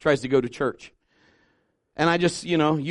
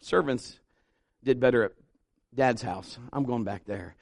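quiet realization; 6 semitones lower, 6 dB quieter than usual. Retold or imitated. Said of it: "And then he realizes".

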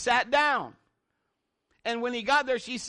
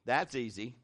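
That's easy, said much lower and softer, offhand; low casual reply; 11 semitones lower, 6 dB quieter than usual. Retold or imitated. Pastor Gary shrugging off a big problem, low and offhand. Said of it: "this is his answer to me".

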